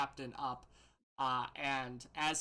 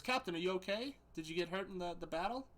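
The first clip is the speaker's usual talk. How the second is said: mildly worried, raised-pitch question; concerned; 4 semitones higher than usual. Acted. Soldier asking his captain about battle injuries, concerned. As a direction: check on the captain with a touch of concern. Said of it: "he is really concerned for you".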